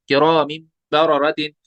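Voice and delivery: slow किरामिन with held M into बररतिन; iqlab with ghunna. Shown as a demonstration. Teacher reciting the whole word, किरामिन hummed at its end. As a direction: join किरामिन to बररतिन on a nasal M. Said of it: "वहां पे इकलाब हुआ है".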